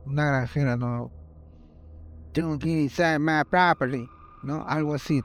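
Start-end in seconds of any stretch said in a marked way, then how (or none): 2.3-4.1 hillbilly farmer. Retold or imitated.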